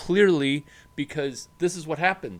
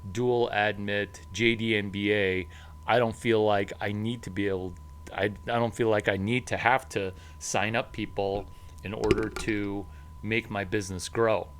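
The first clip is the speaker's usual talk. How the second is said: smug grad; 3 semitones lower than usual. Retold or imitated. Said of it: "And if you feel like".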